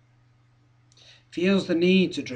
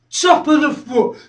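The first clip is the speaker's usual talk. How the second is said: raised, firm voice; higher-pitched, punchy list item; emphatic listing; 5 semitones higher, 4 dB louder than usual. Acted. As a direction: land it high as the last target. First take of last target.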